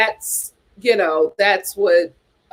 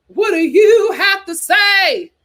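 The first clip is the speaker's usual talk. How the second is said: teasing prompt; 8 semitones higher, 4 dB louder, slower than usual. Real, not acted. Host prompting co-host.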